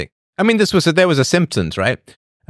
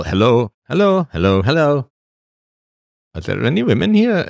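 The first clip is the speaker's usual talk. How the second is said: hello rising higher each time, a mock hopeful caller; mock eager caller; 4 semitones higher than usual. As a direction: call out hello again and again, climbing, like a lonely guy on the line. Men calling the party line.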